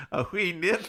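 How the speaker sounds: hammed-up Scottish brogue; comic, halting Scottish lilt; Scottish accent. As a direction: stumble through a bad Irish-turned-Scottish accent. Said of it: "he's Scottish instead of Irish".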